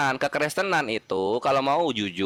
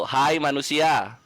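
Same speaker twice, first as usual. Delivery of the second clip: verse recitation; much slower than usual. Real, not acted. Reciting a quoted verse for emphasis.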